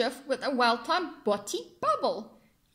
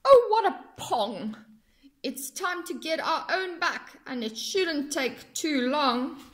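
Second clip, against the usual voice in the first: scheming crab; 3 semitones higher than usual. Acted. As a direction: plot the revenge with glee. Crab plots revenge, chuckling.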